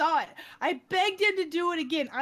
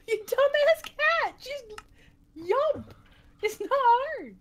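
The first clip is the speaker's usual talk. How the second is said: mock scolding; 9 semitones higher, 3 dB louder, slower than usual. Scolding the cat in story.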